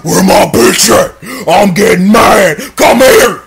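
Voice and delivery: put-on high, loud, wailing jealous boyfriend; hammed-up crying tantrum; mock jealous rage. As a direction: shriek it like a jealous lover. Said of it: "Tiger One in there".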